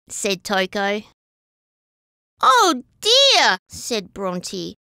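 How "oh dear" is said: worried sigh. Acted. Bronte worries she can't keep up.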